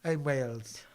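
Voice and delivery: soft, whispered aside; a playful whisper to his wife, hushed and secretive; mock whisper. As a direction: lean in and breathe it as a secret. Conspiratorial whisper.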